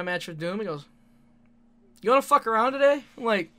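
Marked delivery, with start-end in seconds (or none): 2.0-3.0 excited. Retold or imitated. Wrestler offering a fun match.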